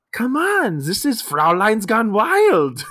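high-pitched, excited mock voice; drawn-out hammed-up egging on; coaxing festival guy. Imitating German man coaxing two girls.

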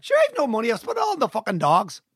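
attempted Derry accent that comes out Donegal; Donegal-sounding accent. Shown as a demonstration. The speaker auditioning with a given line, Derry accent slipping into Donegal. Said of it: "Well, that's Donegal".

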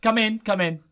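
a lightly played manager welcoming his assistant; lightly voiced gaffer. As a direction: greet him like a relaxed boss. Playing Jimmy in role-play.

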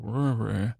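short drawn-out "rrr" noise; wordless trill as a flourish; rolled purring growl. Shown as a demonstration. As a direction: let a little "rrr" rumble out. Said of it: "it kinda gives a".

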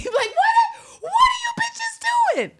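high, loud shriek of disbelief; shocked outburst. Real, not acted. Friend reading a diary, shocked shriek at both women. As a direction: scream it out in utter disbelief.

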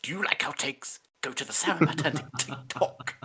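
hushed promo aside; whispering. Pretend. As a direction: whisper the plug.

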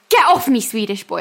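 put-on sudden loud drunken snap, then trailing off; drunk yell. Girlfriend drunkenly yelling at boyfriend removing her makeup, mock yell. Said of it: "And then I go".

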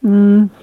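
high, loud approving mm; appreciative hum. Real, not acted. Reviewer sniffing his lager, lets out a loud mm. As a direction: savour the smell out loud.

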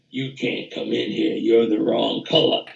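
low, quiet voice of a forbidding authority; voice of South Africa. Retold or imitated. Trumpeter improvising over the track as South Africa, low imitated voice. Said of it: "he's sort of the voice of South Africa telling".

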